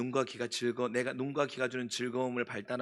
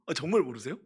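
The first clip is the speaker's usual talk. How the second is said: surprised; 3 semitones higher, 10 dB louder than usual. Real, not acted. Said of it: "진짜 모른단 말이에요".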